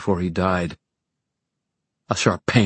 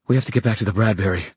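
fast, urgent pleading; desperate; 2 semitones higher, much faster than usual. Acted. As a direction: rush it out in panic. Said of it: "Livy said desperately".

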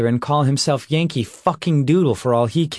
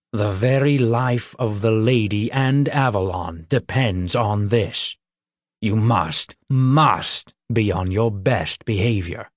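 grave troll voice. Acted. Troll Tangnost warns Peter.

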